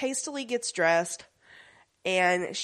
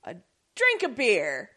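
lightly voiced Ibis; 5 semitones higher than usual. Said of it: "Ibis is like".

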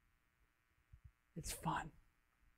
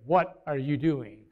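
voice in his head; 3 semitones higher, 6 dB louder than usual. Retold or imitated. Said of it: "But this voice said".

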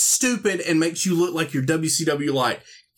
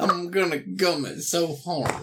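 toothless; 3 dB quieter than usual. Pretend. Toothless gumming joke.

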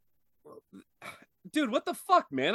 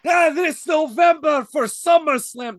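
wrestling promo shout; 6 dB louder than usual. Acted.

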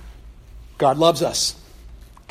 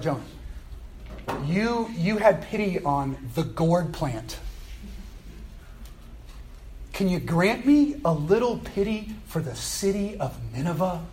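gentle pleading; 5 dB quieter than usual. Acted. God asking Jonah for a little pity, gently. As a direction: ease the request in tenderly. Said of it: "God talks to him so gently".

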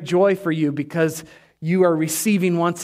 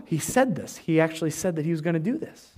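awed realization; 3 semitones lower, 6 dB quieter than usual. Acted. Acting disciples' awed realization.

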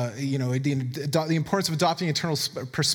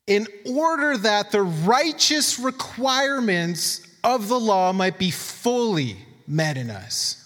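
emphatic scripture reading; 3 semitones higher than usual. Acted. Preacher reads Romans to the church, emphatic scripture reading. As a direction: read the verse out with raised, deliberate weight.

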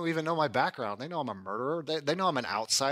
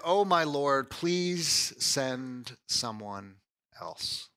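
pleading deflection; 3 semitones lower, much slower than usual. Retold or imitated. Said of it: "he tries to deflect".

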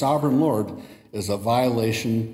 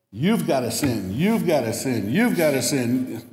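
Oprah impression; 2 semitones higher than usual. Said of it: "it's not like Oprah".

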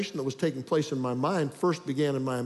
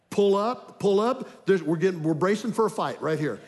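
louder, urgent warning to himself; inner alarm; 3 semitones higher, 3 dB louder than usual. Retold or imitated. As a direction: pilot pulling up before a crash. Inner alarm bracing for fight.

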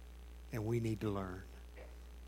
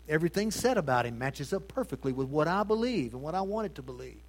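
mock smug believer; 7 semitones higher, 7 dB louder than usual. Mocking self-serving believer.

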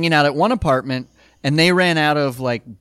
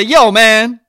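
put-on Scottish accent; 7 semitones higher, 11 dB louder than usual. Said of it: "what's Scottish? I don't know. He could say".

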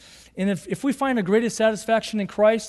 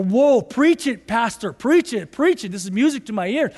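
excited churchgoer; 3 semitones higher, 5 dB louder than usual. Retold or imitated.

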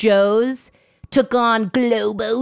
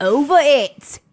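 slow, louder British "Over it"; British-leaning accent, slow and louder; 5 semitones higher, 5 dB louder, slower than usual. Retold or imitated. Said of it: "I just go back to British".

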